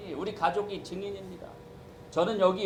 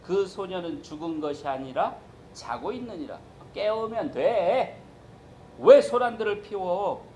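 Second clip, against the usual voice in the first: commanding Jesus; 6 dB louder than usual. Retold or imitated. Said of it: "예수님께서 뭐라고 하시냐면".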